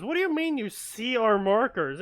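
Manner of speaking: loud, high disbelief; incredulous shout. Retold or imitated. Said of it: "And they're like".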